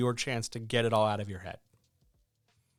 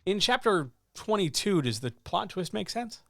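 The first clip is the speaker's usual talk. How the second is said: asking writer voice; 7 semitones higher than usual. Retold or imitated. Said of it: "because you bring questions up".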